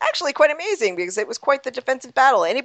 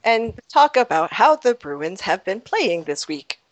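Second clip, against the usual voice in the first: robot voice; 3 semitones lower than usual. Pretend. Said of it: "I thought that I might talk like a robot now".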